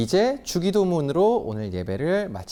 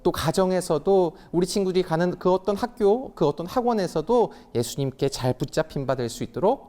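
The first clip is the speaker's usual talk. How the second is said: prayer; 3 semitones higher than usual. Real, not acted. Closing prayer of service.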